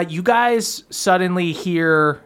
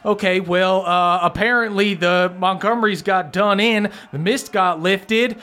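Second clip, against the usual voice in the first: higher-pitched, worked-up henchman; agitated Langston; 4 semitones higher than usual. Acted. Langston reports the Montgomerys' fall, agitated higher voice. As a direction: explain the bad news, pitch raised. Game master plays Langston.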